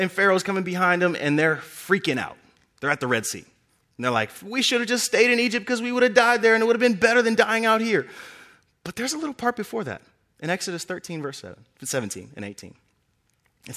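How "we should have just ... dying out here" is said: panicked complaint. Acted. Israelites panic at Red Sea.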